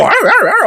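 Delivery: high-pitched mock yapping; imitated dog barking. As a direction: bark like an overexcited little dog. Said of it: "And my dog go".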